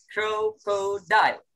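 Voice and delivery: Crocodile drawn out slowly for the class; slow model word. Shown as a demonstration. Teacher models the word for pupils, slowly. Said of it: "Next to".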